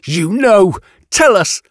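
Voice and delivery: high, accusing demand; harsh, threatening. A narrator's reading. Yatena accuses the witness of knowing, harsh and threatening. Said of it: "voice harsh, threatening".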